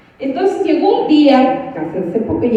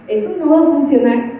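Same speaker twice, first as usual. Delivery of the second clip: repite la frase entre risas; riendo. Retold or imitated. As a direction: se ríe mientras lo dice. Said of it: "primero me quise reír". (riéndose)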